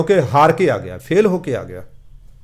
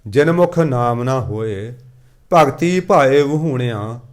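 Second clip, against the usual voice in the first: slow, measured verse reading; scripture recitation; 3 semitones lower, much slower than usual. Acted. Preacher reading Gurbani to the congregation, slow recitation. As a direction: draw out each word of the sacred verse.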